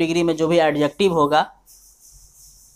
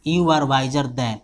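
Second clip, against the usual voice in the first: slow dictation; 3 semitones lower, much slower than usual. Shown as a demonstration. Teacher dictates sentence.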